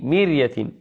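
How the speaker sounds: "مرية" as mir-ya, thin ر; light ra. Shown as a demonstration. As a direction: clear i then light r in "مرية". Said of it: "نقول مي".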